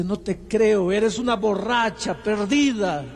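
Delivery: husband scorning his wife's claim of sobriety; contemptuous husband. Retold or imitated. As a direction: sneer out the disbelief slowly. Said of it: "la miró con desprecio".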